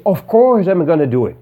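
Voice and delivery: "Of course" stressed high, the rest falling; emphatic assurance. Shown as a demonstration. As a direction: lean hard on "Of course". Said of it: "So you emphasize what you're gonna do".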